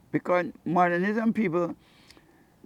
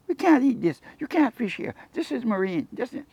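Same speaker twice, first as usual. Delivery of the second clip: mock angry locals; 8 semitones higher than usual. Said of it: "But they're angry".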